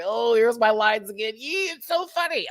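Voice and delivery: high, squealing imitation of giggles; hammed-up high giddy mimicry; mock giggly actress. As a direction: squeal it as if tickled by your own lines. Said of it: "she had the giggles".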